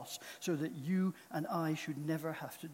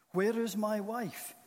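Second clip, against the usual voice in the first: higher, louder desperate question; choked cry; 5 semitones higher, 6 dB louder than usual. A narrator's reading. Lost man groping in darkness calls for his wife, choked. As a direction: call out for a missing loved one, choked. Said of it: "he choked".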